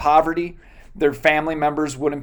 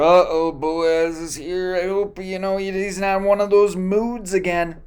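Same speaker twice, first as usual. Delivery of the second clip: worried workers; 3 semitones higher than usual. Pretend.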